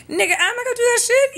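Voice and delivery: loud scoffing no; indignant outburst. Real, not acted. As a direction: throw it back, no way. Indignant refusal of imagined favor.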